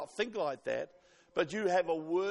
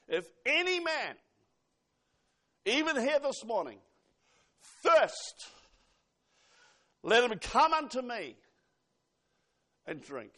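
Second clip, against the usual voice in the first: calling invitation; 3 semitones higher than usual. Acted. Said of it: "this is what he said".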